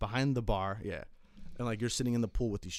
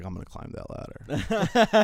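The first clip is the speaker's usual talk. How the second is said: put-on louder, slow, higher drunk brag; mock buddy boast; 7 semitones higher, 9 dB louder, slower than usual. Drunk buddy announcing he'll climb the club ladder, mock boast. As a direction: drag it out like a cocky drunk friend.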